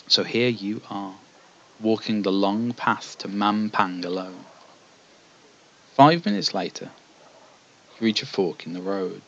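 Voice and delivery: measured fantasy gamebook narration; storyteller setting out a quest; story narration. A narrator's reading. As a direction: read it like an epic tale, unhurried at the phrase ends. Reads gamebook narration aloud.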